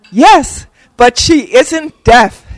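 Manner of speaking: high, slow and sweetly cheerful comeback; nice cheerful voice. Retold or imitated. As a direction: answer with a bright, friendly sweetness. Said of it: "In a nice, cheerful voice".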